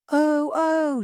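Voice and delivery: hammed-up little shrieks; shouting. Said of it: "she shouted".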